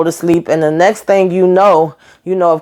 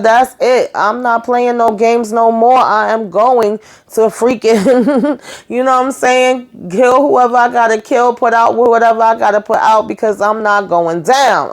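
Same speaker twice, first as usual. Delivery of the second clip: fed-up vow; 5 semitones higher than usual. Retold or imitated. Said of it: "So she said".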